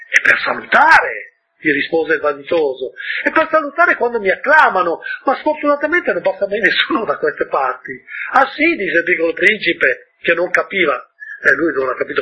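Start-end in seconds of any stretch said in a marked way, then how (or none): 0.1-1.3 high, slow, self-important; vain man. Acted. Vain man explains his hat. 3.2-7.9 higher, self-important voice; boast, then regret nobody passes; vain man. Acted. Vain man explains his hat. 8.3-8.7 high, loud puzzled ah; puzzled surprise. Acted. Prince not understanding.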